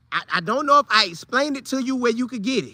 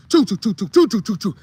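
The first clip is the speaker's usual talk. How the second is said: train chug. Retold or imitated. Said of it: "like two trains".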